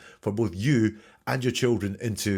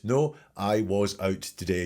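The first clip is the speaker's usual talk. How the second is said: slow full answer; slower than usual. Shown as a demonstration. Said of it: "You have to give the full answer".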